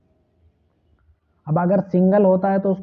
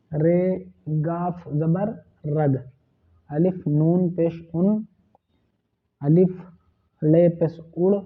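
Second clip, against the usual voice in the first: slow spelling out; slower than usual. Shown as a demonstration. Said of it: "teacher spelling words".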